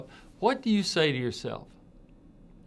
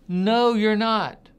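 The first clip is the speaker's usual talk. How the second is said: much higher and louder, slow and firm; firm interruption; 7 semitones higher, 7 dB louder, slower than usual. Real, not acted. Doctor breaks in to stop negative self-talk, loud and firm.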